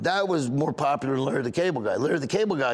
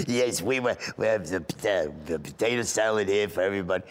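lightly voiced elderly lady, lower-pitched; a hint of Boca retiree; old Boca lady; 4 semitones lower than usual. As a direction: ramble like an old lady caller. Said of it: "everybody from Boca that's seventy and up".

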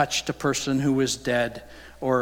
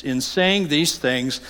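slow, indignant protest; offended lawyer; slower than usual. Acted. A lawyer protesting to Jesus, indignant. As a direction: sound stung and offended. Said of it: "you can hear it in his voice".

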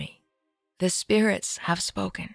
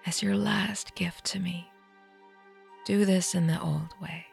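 hushed, softer plea; soft whisper; 5 dB quieter than usual. Acted. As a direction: ask gently, barely voiced. Aunt's last request.

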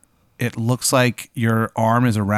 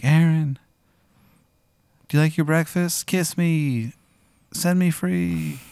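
pleading painting voice; 6 semitones higher than usual. Acted. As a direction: coax him in a high voice, drawing out the last plea. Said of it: "And she's like".

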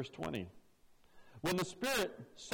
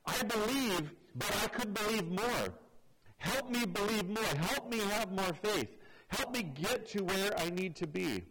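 heartfelt father pleading for faith; sincere plea; 2 semitones higher than usual. Shown as a demonstration. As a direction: beg gently to believe more. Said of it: "What he's saying is".

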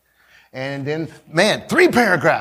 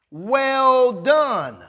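"well done" high, with "done" emphasized; deliberate "well done", weight on "done"; stress on DONE; 4 semitones higher than usual. Shown as a demonstration. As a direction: land hard on "done" and let it fall. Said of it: "The emphasis is on the done".

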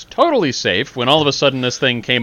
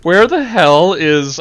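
frustrated muttering; 7 semitones higher, 6 dB louder, slower than usual. Retold or imitated. Acted frustrated search.

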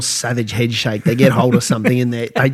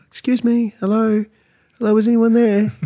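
higher voice calling over the fence; lightly voiced neighbour calling hello, higher; 7 semitones higher than usual. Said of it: "I could hear this voice going".

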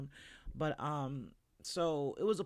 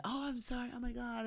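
high, flustered apology; lightly voiced granny apologizing; embarrassed old lady; 7 semitones higher, 5 dB quieter than usual. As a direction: gush out a sorry, caught out. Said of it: "they would be like".

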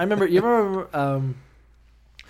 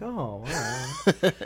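slow laughing sob; 9 semitones higher, much slower than usual. Pretend. Kid softened by motorcycle.

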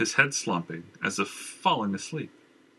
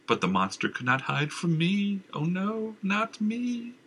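raving madman; 7 semitones higher than usual. Acted. Madman raves on.

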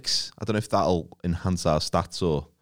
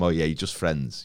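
teasing; 5 semitones lower, 4 dB quieter than usual. Retold or imitated. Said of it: "I was sort of playing with them".

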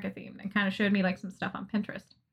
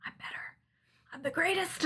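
mock smug boast; 7 semitones higher, 6 dB quieter than usual.

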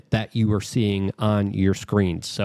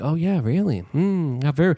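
mock interest; 3 semitones higher than usual. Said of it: "first I played along with it".

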